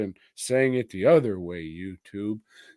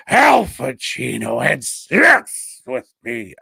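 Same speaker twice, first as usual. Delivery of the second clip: louder, slowed, half-hearted crazy wife; mock crazed wife; 2 semitones higher, 8 dB louder than usual. The wife describing her dreams, lightly mocking voice. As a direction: play the haunted wife, half joking. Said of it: "why she'd be talking like that".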